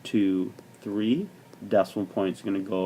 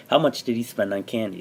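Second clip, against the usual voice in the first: rushing words before a sneeze; holding back a sneeze; faster than usual. Real, not acted. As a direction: speak fast, fighting a sneeze. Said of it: "I'm trying to not to sneeze".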